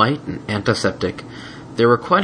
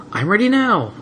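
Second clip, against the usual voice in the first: put-on high eager little boy; impatient eagerness; eager kid voice; 12 semitones higher than usual. Spike eager.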